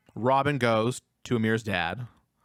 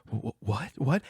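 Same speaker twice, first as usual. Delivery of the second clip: nervous stammer; 3 dB quieter than usual. Retold or imitated. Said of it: "He's just, like, so nervous".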